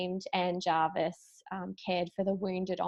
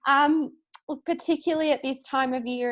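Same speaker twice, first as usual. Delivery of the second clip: getting emotional; 4 semitones higher than usual. Real, not acted. Founder speaking of community to motherless daughters, choking up. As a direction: voice rising with held-back tears. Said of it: "I'm gonna get a, a little bit emotional now".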